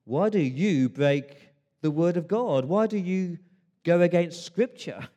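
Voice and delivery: a hint of a stern Jesus rebuking. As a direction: confront them with scripture. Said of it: "Jesus turns it on his head and says".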